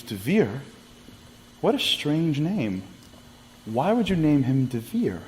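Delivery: slow, wondering question on Devere; puzzled, drawing out each word; bewildered grandmother. Retold or imitated. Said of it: "She goes".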